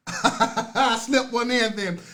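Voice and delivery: slow, chuckling admission; laughing through a sheepish remark; laughing aside. Real, not acted. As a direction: laugh at yourself for sneaking it in. Laughs at his own preaching.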